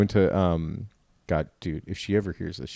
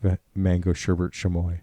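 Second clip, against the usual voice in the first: lightly voiced Miranda, a touch lower; mock voice for Miranda; 4 semitones lower than usual. Teasing Miranda again with her old put-on voice. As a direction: repeat the mocking voice, only slightly lower. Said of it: "That's my voice for her".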